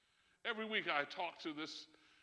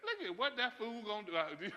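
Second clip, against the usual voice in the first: laughing while quoting God's mockery; God mocking, laughing. Preacher voicing God laughing at a foolish leader, amused. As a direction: chuckle through the words like amused God. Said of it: "and says".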